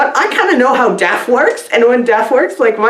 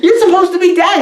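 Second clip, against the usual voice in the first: laughing quote; 9 semitones higher, faster than usual. Retold or imitated. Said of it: "then the guy's like".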